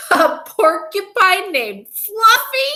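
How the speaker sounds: high, loud, drawn-out incredulous howl; howling with mirth. A narrator's reading. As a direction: howl it in hilarious disbelief. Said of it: "howled the rhinoceros".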